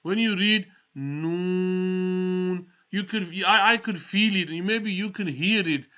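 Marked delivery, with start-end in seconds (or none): 0.0-2.7 When you read Noon, said slowly with a drawn-out Noon; drawn-out Noon example; slow Noon demo. Shown as a demonstration. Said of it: "I'm gonna give you an example".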